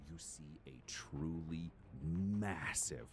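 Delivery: slow, drawn-out monster reveal; game master's scene setting. Acted. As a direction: describe it slowly, stretching the big words.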